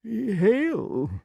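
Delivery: high, uncertain echo of a greeting; nervous king's high-pitched salutation; anxious to impress. A narrator's reading. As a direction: return it high, eager to please. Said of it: "anxious to make a good impression".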